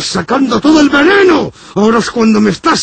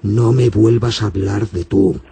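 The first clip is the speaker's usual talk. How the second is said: far lower, soft priest voice; deep priest voice; 5 dB quieter than usual. Acted. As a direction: fade into a low solemn priest. Very low distant priest voice.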